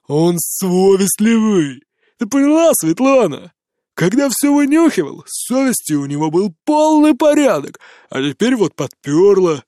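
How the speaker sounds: drunken mocking. A narrator's reading. Drunk mockery to Svetlana.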